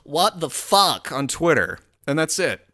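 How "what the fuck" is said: mock exasperation. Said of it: "all he thinks he can do is go".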